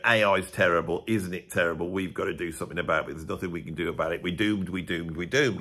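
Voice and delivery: a hint of the Dad's Army "we're doomed" moaner; doom-monger old bloke. To the viewers, mocking old blokes in a light Dad's Army doom voice. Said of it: "like that bloke off Dad's Army".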